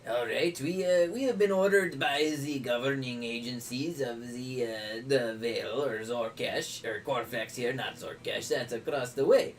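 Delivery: put-on lightly French-accented innkeeper explaining; a hint of French, halting and helpful; mock French accent. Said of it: "butcher my French accent".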